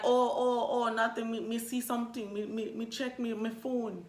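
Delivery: lightly attempted Jamaican accent; mock Jamaican accent. Lost cab driver checking his phone, mock Jamaican accent. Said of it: "My Jamaican accent is not popping".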